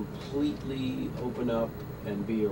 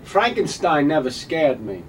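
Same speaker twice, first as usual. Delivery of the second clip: slow, deadpan Walken line; odd Walken cadence; Christopher Walken impression; 4 semitones higher, 6 dB louder than usual. Walken bit.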